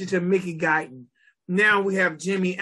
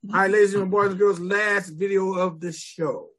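ringmaster. Acted. Host announces final video, redone.

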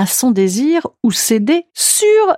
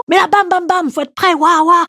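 excited; 7 semitones higher than usual. Pretend. Excited stage build-up.

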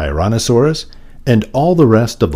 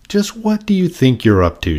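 raised pitch, a gran demanding an explanation; mildly stern questioning; 9 semitones higher than usual. A narrator's reading. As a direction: question the child with mild indignation. Gran challenges Sammy in story.

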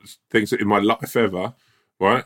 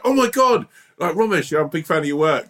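a light, higher gushing fan voice; 7 semitones higher than usual. Retold or imitated. Fan approaches the comedian at the bar, lightly gushing. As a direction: lightly play an excited stranger at the bar. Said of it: "they go".

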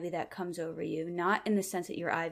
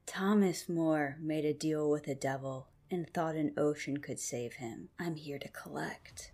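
otherworldly voice; 3 semitones lower than usual. Acted. Possessed brother grabs Caleb by the neck, eerie lower voice. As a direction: speak as a possessing spirit, sinking low. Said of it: "the voice doesn't really come from me".

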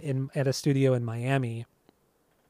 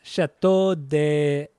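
drawn-out, slow French accent attempt; over-the-top French accent, badly faked; much slower than usual. Shown as a demonstration. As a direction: stretch it out in a put-on French accent. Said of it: "say it in French".

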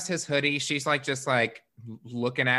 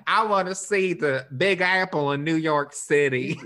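mock tourist voice; 3 semitones higher, 5 dB louder than usual. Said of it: "dumb Southern talk".

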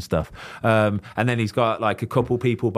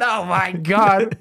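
stunned gasp; 9 semitones higher, much slower than usual. Retold or imitated. Star-struck reaction to Ryan's call.

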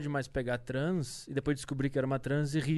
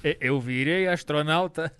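imitating André Marques; 5 dB louder, much slower than usual. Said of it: "o vídeo do D J André Marques".

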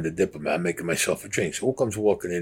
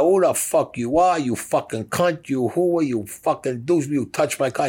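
higher-pitched, drawn-out insults; retold rant, slow and high-pitched; acted angry tirade; 6 semitones higher, slower than usual. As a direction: imitate an outraged man cursing someone out. Acted tirade over a touched car.

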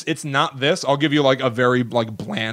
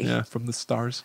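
slow, softer spooky line; mock spooky hush; 8 dB quieter, slower than usual. Joking to co-host, spooky hushed. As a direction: say it like a campfire mystery. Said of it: "might come from outer space".

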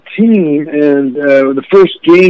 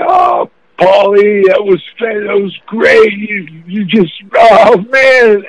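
retold excited calling out, pitched higher; excited brother; 5 semitones higher, slower than usual. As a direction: play the thrilled brother calling from the stands. Brother rushing down from the stands.

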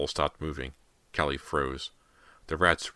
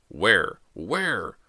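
loud question, then higher; desperate; 5 semitones higher, 5 dB louder than usual. A narrator's reading. Father hunts for his son, desperate raised voice. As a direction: repeat it urgently, pitch climbing. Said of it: "Mister Fraser repeated desperately".

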